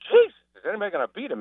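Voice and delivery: fast, high Aussie voice; Australian accent. Retold or imitated. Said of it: "from Ted Kennedy to Crocodile Dundee".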